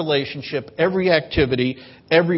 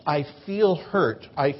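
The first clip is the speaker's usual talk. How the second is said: calm honest feelings; much slower than usual. Shown as a demonstration. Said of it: "maturity helps us to express true feelings".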